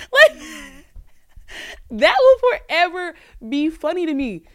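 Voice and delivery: high, loud laughing burst. Real, not acted. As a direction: crack up at the story. Laughs at story.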